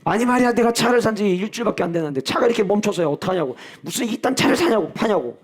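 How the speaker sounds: mock angry complaint. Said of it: "막 화를 냈어요".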